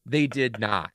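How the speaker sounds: slow, hushed and deliberate; emphatic understatement. Real, not acted. Teacher says class never crossed her, quiet and slow. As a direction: drop it softly as a punchline. Punchline about watching class.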